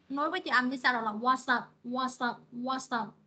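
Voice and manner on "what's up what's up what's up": "what's up" joined as "what-sup"; linked sounds. Shown as a demonstration. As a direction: carry the s of "what's" straight into "up". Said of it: "Và nó nối âm ha". (đọc nối âm "what's up", s dính vào "up")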